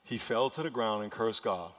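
deliberate, measured reading for a response; slow reading. Shown as a demonstration. Preacher rereading the verse so people respond, slow reading. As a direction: read it out slowly and evenly. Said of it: "I'm gonna read it slow again".

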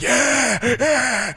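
put-on high, loud excited kids' yeah; kids cheering. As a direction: cheer it like a pack of eager kids. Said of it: "So they were like".

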